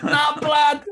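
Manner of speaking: lightly hammed London tough-guy challenge; British thug accent. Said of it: "the British".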